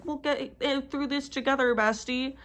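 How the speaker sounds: soft, high mocking sweet voice; mock comforting friend. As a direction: parody a saccharine bestie. Mocking a character's line.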